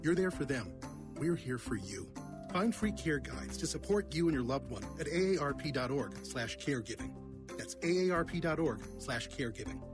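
public service announcement. Acted. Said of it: "A public service announcement".

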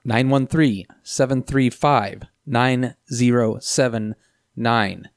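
spelling out each number slowly; slow dictation. Shown as a demonstration. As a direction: read the digits slowly for callers to note. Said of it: "repeated number".

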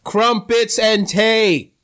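slow, hammed-up British accent; a Southern man's fake British accent, slowly; drawn-out mock British accent. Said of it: "a Southern man trying to do a British accent".

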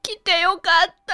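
crying. Real, not acted. Crying recalling the concert.

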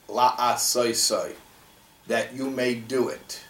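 La'asoseh drawn out slowly and set apart; emphasis on last word. Shown as a demonstration. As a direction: dwell on "La'asoseh" as the key word. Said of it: "the emphasis is on the last word".

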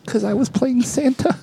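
high, slow grand announcement; mock proclamation. Santa retorting to the snub, hammed-up proclamation. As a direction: declare it like a triumphant Santa. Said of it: "To which I proclaimed".

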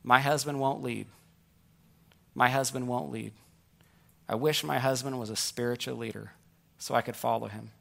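soft, subdued voicing of wives' wishes; understated, wistful retold plea; wives' subdued complaint. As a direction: gently voice a wife's quiet longing. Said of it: "the criticism I hear from wives".

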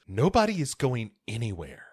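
lightly voiced menacing husband; ominous. Husband to family, a mild ominous threat. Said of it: "Very ominously".

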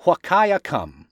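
Whakayacum said slowly, stress on the second and fourth syllables; slow Whakayacum, hitting ka and cum; stress on even syllables. Shown as a demonstration. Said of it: "emphasis on the even syllables".

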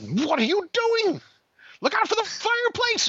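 a father hamming up panic as his daughter drives; mock panic. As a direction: squeal in comic alarm at the crash. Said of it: "And I said".

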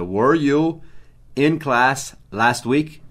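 very slowly, every word spaced; slow dictation. Shown as a demonstration. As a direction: read it out slowly for writing down. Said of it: "escreva essa pergunta". (ditado lento e claro)

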